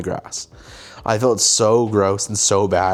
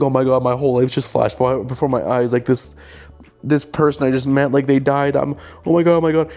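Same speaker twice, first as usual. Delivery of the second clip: higher-pitched mock panicked babble; 4 semitones higher than usual. Life flashing before the character's eyes, mildly acted panic. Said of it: "I like the whole panic".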